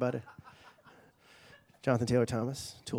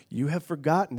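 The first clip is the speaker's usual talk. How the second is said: louder, booming lion king father; James Earl Jones Mufasa; 6 dB louder than usual. Retold or imitated. Mufasa's spirit rebuking his lost son, lightly booming. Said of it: "James Earl Jones style".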